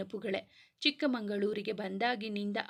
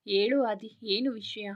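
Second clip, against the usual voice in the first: heroine's voice; 5 dB louder than usual. Acted. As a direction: answer him gently as the girl. Heroine answers Adi.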